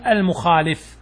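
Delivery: المخالف with an "i" after the lam, al-mukhaalif; kasra on the lam. Shown as a demonstration. Teacher gives the adjective example, المخالف with "li". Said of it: "لكسرت اللام".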